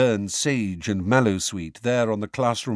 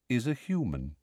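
simply; 7 dB quieter than usual. Acted. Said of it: "said Firenze simply".

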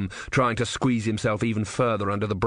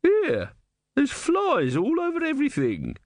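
woman complaining. A narrator's reading. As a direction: protest like a fussy customer. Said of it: "she said".

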